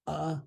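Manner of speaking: "Ah" as the vowel in water; pronounced ah. Shown as a demonstration. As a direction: say an open, separate "Ah". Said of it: "It is pronounced ah".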